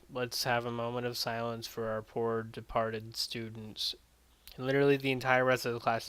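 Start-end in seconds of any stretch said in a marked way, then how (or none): 0.1-3.9 lightly voiced, uninterested teacher announcement; unenthused teacher. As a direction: recite the condolences with little enthusiasm. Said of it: "teacher's unenthused".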